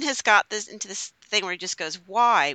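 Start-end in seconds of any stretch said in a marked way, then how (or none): 2.1-2.5 put-on whiny child. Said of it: "with a really whiny voice".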